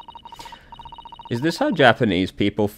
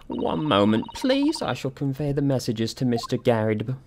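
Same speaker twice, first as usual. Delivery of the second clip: higher, polite housemaid voice; prim maid; 5 semitones higher than usual. Acted. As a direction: lift the voice into a proper maid. Maid answers the door.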